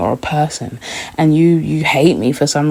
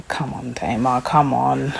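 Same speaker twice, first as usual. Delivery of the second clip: whisper; 3 semitones lower, 7 dB quieter than usual. Real, not acted. Exasperated aside to Tamar.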